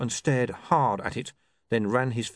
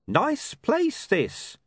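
a little too loud, higher; slightly over-loud; 3 dB louder, much slower than usual. A narrator's reading. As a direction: say it loud for eavesdroppers. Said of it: "in a slightly over-loud voice".

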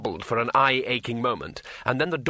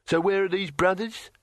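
grinning barbarian voice; 4 semitones higher than usual. Acted. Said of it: "he grinned".

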